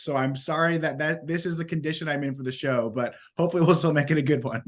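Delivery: hoarse sick voice; raspy voice from a cold; smoker's rasp. Real, not acted. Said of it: "my voice sounds like I'm a chain smoker".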